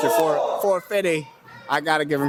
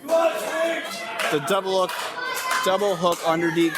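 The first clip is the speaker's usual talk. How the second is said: wrestling commentator; slower than usual. Real, not acted. Shouting the move name.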